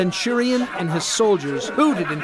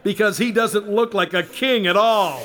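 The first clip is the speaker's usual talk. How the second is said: scoffing through a laugh, rising higher; laughing mockery; 3 semitones higher than usual. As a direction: laugh at him while you talk. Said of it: "the centurion laughed".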